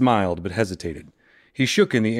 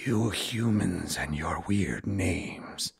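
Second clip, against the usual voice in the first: teasing; 5 dB quieter, slower than usual. Acted. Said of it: "he teased".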